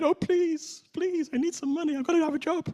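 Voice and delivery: very high, teary, tearful pleading tone. Retelling the reply to a man with no students, mock watery-eyed pleading. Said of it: "in a sort of watery-eyed".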